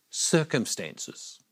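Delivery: slow, whispered reveal; hushed answer. Shown as a demonstration. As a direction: whisper it slowly, letting the word fall. Hushed answer to own question.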